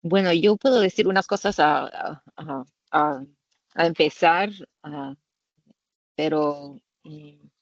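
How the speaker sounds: Spanish with an American accent; careful Spanish, American English accent. Real, not acted. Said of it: "perdona mi español, no es muy, muy buena".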